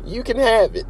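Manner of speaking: high, far-off grudging voice; begrudging yes. Retold or imitated. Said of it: "stared at him begrudgingly and went".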